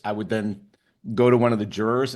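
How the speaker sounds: ordinary delivery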